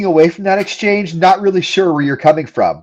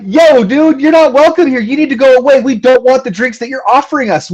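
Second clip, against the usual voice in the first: higher, emphatic mock telling-off; insistent, raised-pitch role-played brush-off; acted firm rejection; 5 semitones higher than usual. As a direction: act out bluntly sending someone away. Acts woman firmly rejecting a guy.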